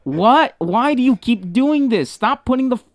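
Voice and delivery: high-pitched appalled ranting; exasperated scolding. Real, not acted. Host berating co-host over the dirty mic, exasperated. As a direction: scold them in disbelief.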